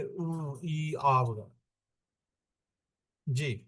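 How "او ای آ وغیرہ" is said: imitated sick groans. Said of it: "اس قسم کی آواز نکالتا ہے، کیسے؟".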